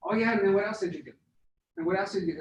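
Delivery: fast, stop-start questions; choppy stopping. Shown as a demonstration. Sales rep stalling a caller, quick and choppy. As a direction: keep cutting the flow short. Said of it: "if I just keep stopping it".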